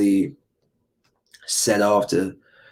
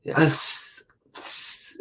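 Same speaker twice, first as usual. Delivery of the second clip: lisped s; 5 semitones higher, 5 dB quieter, much slower than usual. Retold or imitated. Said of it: "listen to it".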